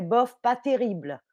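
shrugging "bof, pas terrible" with a falling tune; indifferent shrug. Shown as a demonstration. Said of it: "ça veut dire".

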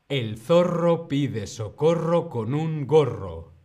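loud, connected tongue twister; model reading. Shown as a demonstration. Teacher models the whole phrase for learners, loud and joined up. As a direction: say it through firmly without breaks. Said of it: "Primero lo digo yo".

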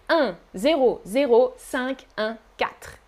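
each digit read out separately; chiffre par chiffre. Shown as a demonstration. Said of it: "Chiffre par chiffre". (chiffre par chiffre)

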